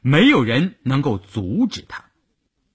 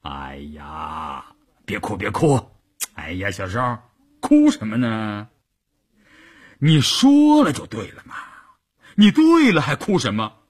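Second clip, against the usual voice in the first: hurried comforting; 3 semitones lower than usual. Acted. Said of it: "关山林忙说".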